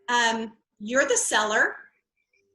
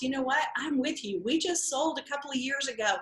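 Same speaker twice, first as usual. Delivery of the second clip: 1 empathetic agent. Acted. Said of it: "empathizing with the stress".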